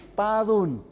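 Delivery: padun, the t softened to a d; slow, soft d in padun. Shown as a demonstration. Teacher modelling padun with a soft d. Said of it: "así, padun".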